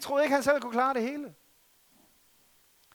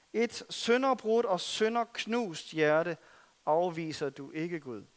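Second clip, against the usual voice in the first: psalm reading. Acted. Preacher reads David's psalm of repentance, hushed and humble. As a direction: read the psalm as a broken-hearted confession.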